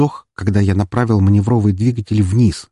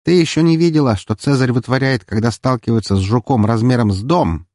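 lightly amused bragging; cheerful; 4 semitones higher than usual. Acted. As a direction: tease with a merry war story. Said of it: "весело ответила Валькирия".

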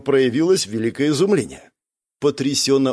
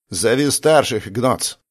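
slow, calm instruction; calmly; slower than usual. Acted. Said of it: "спокойно сказал ему я".

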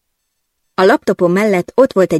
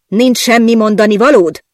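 higher, louder tense demand; tense glare; 5 semitones higher, 5 dB louder than usual. Acted. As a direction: press her, barely holding back. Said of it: "merett rám feszülten". (feszülten, hangosabban)

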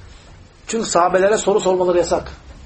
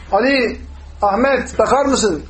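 higher-pitched call for attention; 4 semitones higher, much slower than usual. Shown as a demonstration. Teacher showing how friends hail each other, calling out. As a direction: call to someone by name. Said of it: "biz birbirimize sesleniyoruz".

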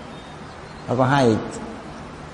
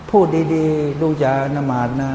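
gentle parent; slower than usual. Retold or imitated.

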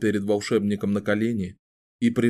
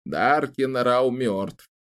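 very slow and weighty; slow, grave; 2 semitones higher, much slower than usual. Acted. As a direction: let each word drop slowly. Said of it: "странно взглянул на него".

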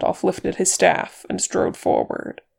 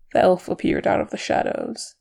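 plain reading voice

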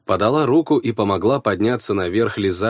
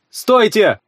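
loud, higher shout to stop; 11 semitones higher, 5 dB louder than usual. A narrator's reading. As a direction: call out to halt them. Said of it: "крикнул я".

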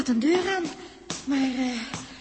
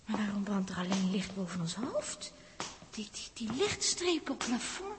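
whisper; 4 semitones lower, 9 dB quieter than usual. Acted. Nervous in a strange ship.

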